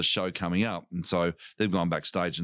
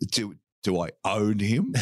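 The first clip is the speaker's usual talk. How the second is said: rising, wide-eyed kid's question, acted; wondering child. Comic as a child staring at the dwarf, wondering.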